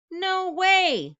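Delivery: loud, high no way; farmer's loud flat refusal; firm refusal. Acted. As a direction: shut it down hard. Farmer refusing cows' demand.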